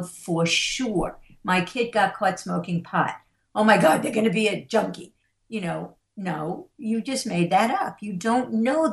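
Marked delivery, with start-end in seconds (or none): 3.5-5.1 quick, overblown alarm; mock parental panic. Parent whose kid got caught smoking pot, quick mock panic. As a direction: imitate a parent jumping to the worst.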